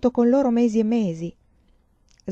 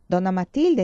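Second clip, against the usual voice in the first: esclamazione soddisfatta; 5 dB louder than usual. Acted. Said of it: "esclamò soddisfatta".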